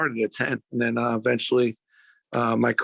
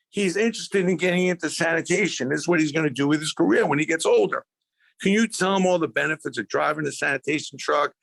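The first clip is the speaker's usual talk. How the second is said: higher, bright introducing voice for the mother; mother voiced; 4 semitones higher than usual. Mother introducing her son to the garbage truck driver, higher and upbeat. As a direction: play Mom cheerfully presenting her son.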